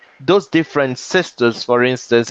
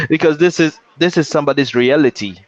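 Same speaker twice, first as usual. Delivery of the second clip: stifled giggles; 4 semitones higher, faster than usual. Real, not acted. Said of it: "I'm trying not to laugh".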